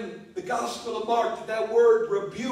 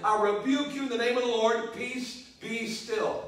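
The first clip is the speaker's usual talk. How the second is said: quick command. Shown as a demonstration. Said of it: "How long does that take?".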